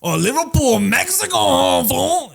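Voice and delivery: put-on very high-pitched cholo accent; stereotypical Mexican accent. Cholo mistaking where a famous band comes from, stereotypical Mexican accent. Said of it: "he acts like a stereotypical Mexican".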